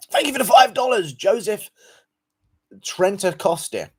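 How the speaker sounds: loud, high-pitched donation shout-out; high, loud thank-you. Real, not acted. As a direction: call out the thanks high, then stretch the surname. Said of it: "Sorry, let me go again".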